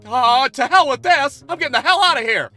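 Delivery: the dog fleeing in fear; panicked dog. Acted. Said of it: "Otis ... to be like".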